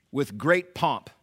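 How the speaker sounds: "With great pomp," said slow and weighty; "With great pomp" drawn out, pomp stressed. Shown as a demonstration. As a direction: lean on "pomp" and drag the phrase. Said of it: "two words you should make note of".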